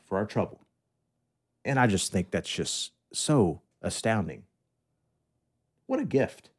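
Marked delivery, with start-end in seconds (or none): 1.6-6.5 understated sarcastic wonder. Real, not acted. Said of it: "I'm being a little sarcastic".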